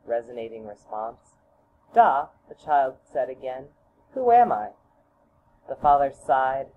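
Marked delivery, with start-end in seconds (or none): 1.9-2.3 put-on louder child's call. Child calls father again, loud. 4.1-4.7 put-on high, louder childlike question; child's question. Child asks father who he is, high and loud.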